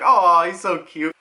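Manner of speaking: lightly cooing, slow fond remark; drawn-out mock fondness; proud uncle. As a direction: coo over a kid like a doting uncle. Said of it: "like an uncle when he's proud of his kids".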